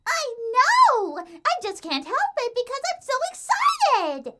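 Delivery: very high gleeful character voice; bubbly excitement. A narrator's reading. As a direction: burst out, unable to contain it. Excited pony cannot stop talking.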